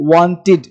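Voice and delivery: wanted with a light i sound, wantid; right wanted. Shown as a demonstration. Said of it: "इस तरह से बोलना आपको है". (wanted में हल्का सा ई साउंड)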